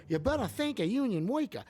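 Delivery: put-on high, sing-song old vaudeville delivery; a singer's vaudeville voice. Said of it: "nineteen twenties, like, a singer's vaudeville voice".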